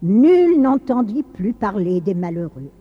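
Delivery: dramatic, lilting storyteller with measured pauses; story narration. A narrator's reading. Narrator telling of Saint Nicolas and the butcher, storytelling. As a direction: tell it like a grave old legend.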